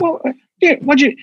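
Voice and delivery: put-on a fumbling old-man start; Biden impression. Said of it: "He keeps doing that thing".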